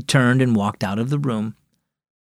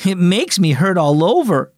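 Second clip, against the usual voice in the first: wailing; 3 semitones higher than usual. Acted. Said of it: "she wailed".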